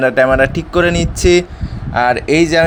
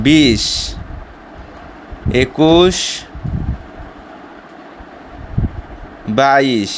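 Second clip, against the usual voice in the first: doing push ups; 4 dB quieter, much slower than usual. Real, not acted. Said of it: "let's start".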